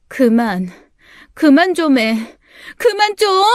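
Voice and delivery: building from tense to shrill yell; rising angry outburst. Acted. Daughter in her room yelling at the adults, angrily. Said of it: "분노를 참기 힘들었어요".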